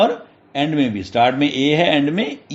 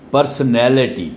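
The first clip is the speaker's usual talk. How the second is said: usual speaking voice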